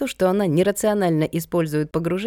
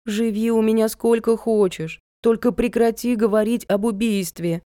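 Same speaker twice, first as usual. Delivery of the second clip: higher-pitched imploring; mildly begging, pitch lifted; pleading; 5 semitones higher than usual. A narrator's reading. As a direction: give in with an exasperated plea. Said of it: "взмолилась я".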